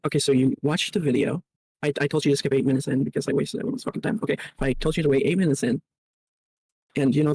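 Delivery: tinny, metallic mic sound; talking from inside a tin can. Real, not acted. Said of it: "you sound like you're in a tin can".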